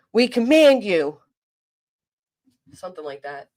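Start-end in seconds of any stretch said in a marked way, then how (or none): 0.1-1.2 slow, solemn command like a priest; mock exorcist. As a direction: intone it like a ritual. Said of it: "What do they say?".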